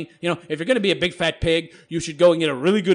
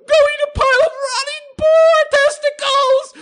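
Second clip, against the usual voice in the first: "Go eat a pile of rotting boar testicles!" shrieked much higher and louder; mock screech; 7 dB louder than usual. Vlogger voicing an all-caps commenter, mocking screech. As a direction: shout it like an enraged commenter. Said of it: "I'm gonna have to screech".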